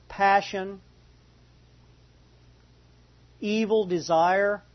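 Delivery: deliberate scripture reading, broken by long pauses; unhurried, measured Bible reading; slow reading. Real, not acted. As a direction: let each item sink in before the next. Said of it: "read this kind of slow".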